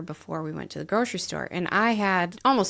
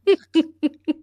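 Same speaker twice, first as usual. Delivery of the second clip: a big burst of laughter; loud high laugh at the memory; 9 semitones higher, 10 dB louder than usual. Real, not acted. Laughing at own retort.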